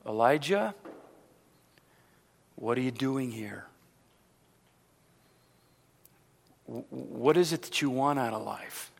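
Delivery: soft, low, unhurried questioning; still small voice. Acted. God questioning Elijah in the cave, in a still small voice. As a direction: ask gently, leaving long pauses. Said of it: "that still small voice, I believe, said".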